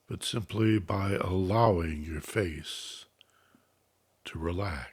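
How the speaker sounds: measured, unhurried instructions, easing off at phrase ends; guided meditation. Real, not acted. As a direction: calmly guide listeners into relaxation, letting phrases settle.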